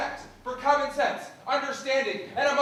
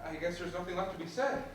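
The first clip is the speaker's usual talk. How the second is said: resigned; 7 semitones lower, 10 dB quieter than usual. Acted. Husband resigned after breakup.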